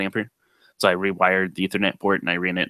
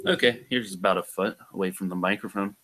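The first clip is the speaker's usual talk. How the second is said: distant, softer mic sound; a foot from the mic; 6 dB quieter than usual. Shown as a demonstration. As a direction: speak from a foot back off-mic. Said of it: "go back a foot and speak in the same voice".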